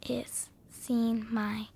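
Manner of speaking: slow flat robot voice. Shown as a demonstration. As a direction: talk like a robot. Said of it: "I'm just talking like a robot".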